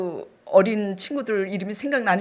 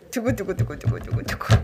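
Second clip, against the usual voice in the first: mock drumroll; 6 semitones lower, 3 dB quieter than usual. Teasing the congregation before the reveal, playful drumroll. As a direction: lower voiced drumroll sound.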